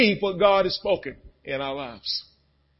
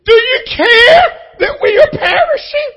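desperate cry; 13 semitones higher, 9 dB louder than usual. Retold or imitated. Disciples crying out in storm.

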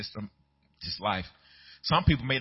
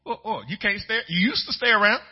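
high, teasing surprised friend; mock surprise; 7 semitones higher, 3 dB louder than usual. Friend teasing the believer who is leaving, mock surprised.

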